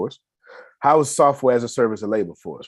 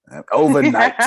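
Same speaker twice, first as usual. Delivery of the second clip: excited exclaim; 7 dB louder than usual. Real, not acted. Dramatic rise about puberty.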